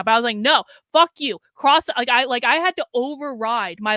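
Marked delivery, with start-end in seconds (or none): 0.4-1.9 sudden loud snap at her own guilt; inner shout. Retold or imitated. Narrator snaps at her inner guilty voice, loud. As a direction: shout down the voice in your head.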